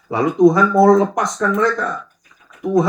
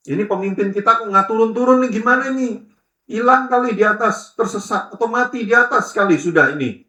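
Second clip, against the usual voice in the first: higher, anxious grumbling crowd; restless worry; 6 semitones higher than usual. Retold or imitated. Preacher voicing the restless Israelites, mildly anxious. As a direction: fret aloud like a worried crowd. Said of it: "Bangsa Israel gelisah".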